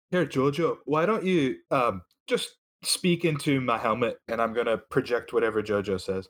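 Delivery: put-on loose Irish accent that slides toward Scottish; attempted Irish accent. Reaching offers Jojo the helmet speaker, shaky attempt at an Irish accent. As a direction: play Reaching with a wobbly Irish lilt. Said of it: "had a Scotch accent".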